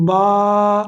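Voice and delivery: با said briefly, not stretched; short ba, no madd. Shown as a demonstration. Teacher contrasting ba without madd, kept short. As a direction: keep با short. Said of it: "اس کو ہم لمبا کم کریں گے".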